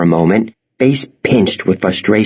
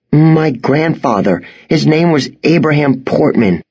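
put-on nervous boy; 5 semitones higher than usual. Boy answers.

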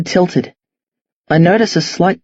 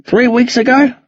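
put-on slightly raised, questioning old man; puzzled old man pleading not to follow; lightly voiced confused old man; 4 semitones higher than usual. Old man questioning two boys, lightly voiced bewilderment.

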